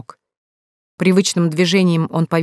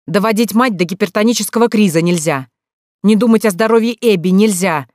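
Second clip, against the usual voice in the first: loud, raised, lecturing voice; deliberately loud; 4 semitones higher, 5 dB louder than usual. Acted. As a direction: say it loud so she hears through the door. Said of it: "Он говорил нарочито громко". (нарочито громко, на публику)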